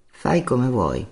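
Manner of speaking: slow, cold reply. A narrator's reading. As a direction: answer coldly, drawing the words out. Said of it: "risposi freddo". (risposta fredda e lenta)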